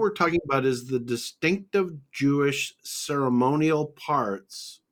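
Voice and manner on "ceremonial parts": "ceremonial" slowed right down for emphasis; stress on ceremonial. Real, not acted. Teacher marking off the ceremonial laws, "ceremonial" stressed slowly. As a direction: draw out "ceremonial" deliberately. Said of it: "I wanna emphasize that word".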